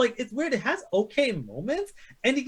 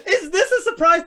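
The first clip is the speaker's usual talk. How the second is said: laughing while asking, higher and louder; 7 semitones higher, 5 dB louder than usual. Real, not acted. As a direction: laugh through the question. Laughs at number one pick.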